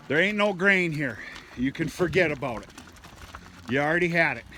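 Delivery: teasing telling-off to the heifers; scolding the cows. Real, not acted. Farmer telling hungry heifers no grain, teasing scolding.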